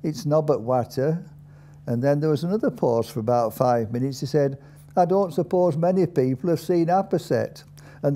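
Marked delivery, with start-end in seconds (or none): 0.0-1.2 lightly voiced old Dales man; a hint of a taciturn Yorkshire old-timer; old Dalesman. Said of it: "an old man there". 5.0-7.6 lightly voiced old Dales man, higher; a hint of a taciturn Dales old-timer, pitched up; old Dalesman. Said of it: "an old man there".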